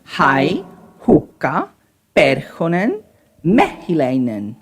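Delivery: "Hai, hukka, perhonen, mehiläinen", each punched on its first syllable then dropping; stress on first syllable. Shown as a demonstration. Teacher giving Finnish examples, stress on the first syllable of hukka, perhonen, mehiläinen. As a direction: hit the openings: HAI, HUK-ka, PER-honen, ME-hiläinen. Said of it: "It's always on the first syllable of the words".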